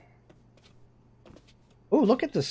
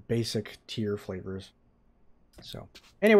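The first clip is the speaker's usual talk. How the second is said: ordinary talk, nothing marked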